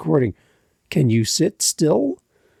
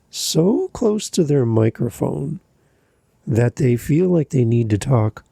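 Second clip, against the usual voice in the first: mock sleepy podcaster. Shown as a demonstration. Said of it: "I'm gonna try to do this".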